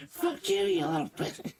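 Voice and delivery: a hint of a yipping, pissed-off wolf; yipping yell. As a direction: yap it out like a furious small creature. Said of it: "yelling at you and yipping at you".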